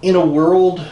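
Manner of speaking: epic trailer narrator intro; movie trailer voice. Pretend. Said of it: "Using your movie trailer voice".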